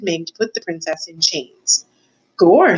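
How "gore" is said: put-on a touch of a blunt serving girl; serving girl Mig. A narrator's reading. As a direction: exclaim it as a simple serving girl.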